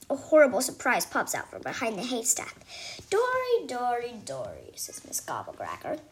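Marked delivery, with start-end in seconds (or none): 3.1-4.7 creepy sing-song. Acted. Teacher popping out, taunting the girl's name.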